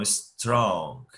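"strong" slowly, S leading into one long syllable; one mouth movement. Shown as a demonstration. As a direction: stretch "strong" as a single syllable. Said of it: "Abri e fechei". ("strong" devagar, numa sílaba só)

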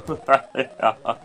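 creepy put-on captain's cackle; creepy laugh. Captain laughs after boasting of his ship, creepy laugh. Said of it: "That was a bit creepy".

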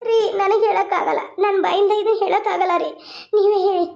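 acted sobbing, unable to tell; crying too much to break the news; tearful. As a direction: plead through tears. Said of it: "ಯಾಕ್ ಅಳಾಕತಿ?".

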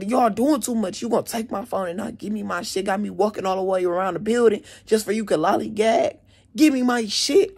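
mad cussing, retold. Mad student cussing out staff over phone, retold indignant rant. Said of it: "now I'm cussing 'cause I'm mad".

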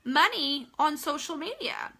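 a hint of a sugary recruiter; spam sender. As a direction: parody an overeager recruiter, gushing. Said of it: "are just".

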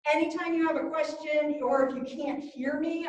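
muffled behind a mask; talking through a face mask. Real, not acted. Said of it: "I know I'm talking through a mask".

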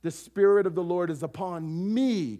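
a touch of personal claim, chest-struck; lightly voiced Jesus claiming the words. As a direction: say it as if it's about yourself. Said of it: "And he says this".

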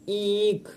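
ईक with a lengthened ee; ईक, vowel held long before the k; drawn out. Shown as a demonstration. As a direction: stretch the ee of ईक. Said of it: "जैसे हम खींच के बोल रहे हैं".

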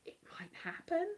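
whispering. Real, not acted. Whispered aside.

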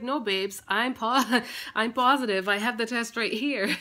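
laughing reassurance. Retold or imitated. Telling husband she's pregnant.

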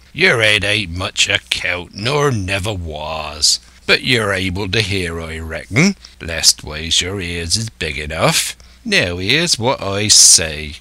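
slow, drawn-out West Country pirate; old pirate, commanding. Acted. Silver putting Israel in his place, slow commanding pirate. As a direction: lay down the law like an old sea-dog.

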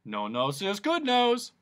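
mock thunder; thundered joke. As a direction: boom out the pun. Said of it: "thundered the Din".

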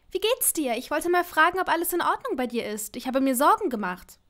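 high, eager worried voice; anxious Hermine. Acted. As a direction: rush out the questions, nervous and bright. Hermine calls Malfoy, worried.

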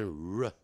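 "t" and "r" said one by one, "r" as "ruh"; separated consonant sounds. Shown as a demonstration. Teacher showing students the r sound, segmented pronunciation. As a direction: sound out "t", then "r", apart. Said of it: "要念".

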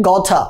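"গথা" with an aspirated T; British-style crisp TH-like T in "গথা"; British pronunciation. Shown as a demonstration. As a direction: puff the T in "গথা", British "got-tha". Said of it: "ব্রিটিশরা এটা উচ্চারণ করা হচ্ছে".

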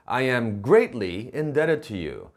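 "greatly" stressed and spaced out in a deliberate sentence; emphatic "greatly", measured pace; emphasis on greatly. Shown as a demonstration. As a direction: lean on "greatly" to underline the debt. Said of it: "이렇게 강조해서 말하고 싶다면요".

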